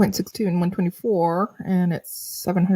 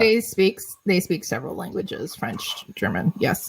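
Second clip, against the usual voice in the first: mouth full of chicken. Real, not acted. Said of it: "while Kelly's mouth is full of, uh, full of chicken".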